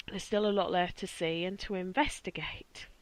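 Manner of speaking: hushed, eerie whisper. Acted. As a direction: whisper it like a ghost tease. Spooky teaser about investigating.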